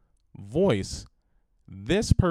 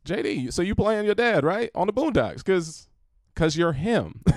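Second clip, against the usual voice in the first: high excited fan voice; 8 semitones higher than usual. Retold or imitated. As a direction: gush like an eager fan. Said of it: "reached out and said".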